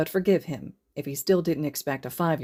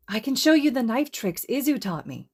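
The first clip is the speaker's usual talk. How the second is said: put-on little girl voice; 8 semitones higher than usual. Little girl offering proudly.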